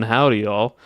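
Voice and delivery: light Southern accent greeting; Southern lilt with a livelier rise and fall. Shown as a demonstration. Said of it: "saying in, like, the Southern".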